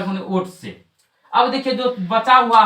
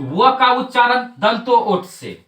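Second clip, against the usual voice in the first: "व का उच्चारण" spoken slowly, each word set apart for pupils to repeat; slow drill recital; 3 semitones higher, slower than usual. Shown as a demonstration. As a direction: dictate it slowly so the class can chant along. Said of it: "तीन चार बार बोलिए". (धीमे-धीमे रटवाते हुए)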